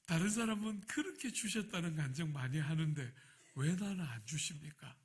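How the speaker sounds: mild resentful complaint to God; slightly crooked prayer. Retold or imitated. Pastor retelling a complaint to God, slightly sulky. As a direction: grumble at being passed over, only lightly. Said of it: "이렇게 약간 삐딱하게".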